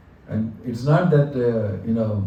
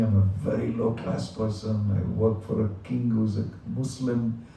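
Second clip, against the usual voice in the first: mild mock crying plea; 4 dB quieter, slower than usual. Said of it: "on the floor crying and saying".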